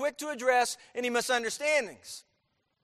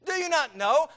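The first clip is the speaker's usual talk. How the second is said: higher, louder challenge; insistent preaching; 6 semitones higher, 7 dB louder than usual. Acted. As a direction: press the question on the hearers. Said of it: "He says".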